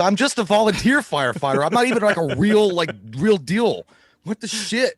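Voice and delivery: a scared rookie blurting it out; lightly voiced freaked-out firefighter; panicked firefighter. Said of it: "they're like".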